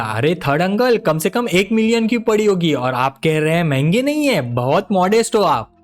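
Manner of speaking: lightly hammed-up admiring nephew; a touch of fake praise; put-on flattery. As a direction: flatter him with mock awe. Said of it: "acting करते हुए बोला".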